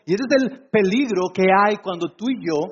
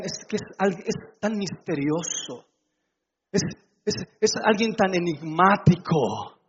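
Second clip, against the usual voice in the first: mock awe; 2 semitones lower than usual. Smitten woman describing her silent suitor, in mock wonder. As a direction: linger on it, pretending to be intrigued.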